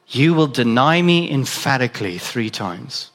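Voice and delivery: Jesus warning Peter gently but firmly; solemn Jesus. Acted. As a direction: speak as a knowing teacher to his friend. Preacher voices Jesus to Peter.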